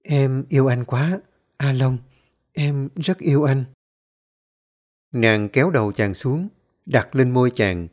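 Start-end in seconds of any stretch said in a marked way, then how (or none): 0.0-3.6 a soft, loving confession, lightly voiced; softly spoken. A narrator's reading. Girl nestled against A Long, softly confessing love. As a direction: murmur it tenderly into his chest. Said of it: "khẽ nói".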